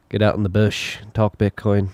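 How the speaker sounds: a hint of an Australian accent; lightly put-on Australian accent. Host trying an Australian accent for Aussie listeners. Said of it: "Is that a good Australian accent?".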